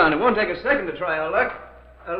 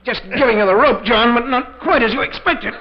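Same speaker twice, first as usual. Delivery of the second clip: sinister reveal; 6 semitones higher than usual. Acted. Villain reveals his trap.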